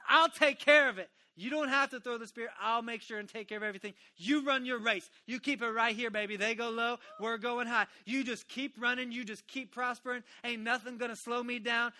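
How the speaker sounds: loud, rousing voice of the Lord, rising in pitch; God speaking. Acted. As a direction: proclaim it as God's promise, full force. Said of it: "See, the Lord says".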